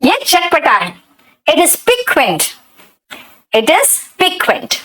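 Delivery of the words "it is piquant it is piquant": slow dictation. Shown as a demonstration. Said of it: "पिक्वेंट का मतलब चटपटा".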